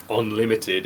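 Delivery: UNLIMITED set apart by a pause, as if quoted; "unlimited" held apart with a sceptical emphasis; air quotes. Real, not acted. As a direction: put spoken air quotes around UNLIMITED. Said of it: "in air quotes".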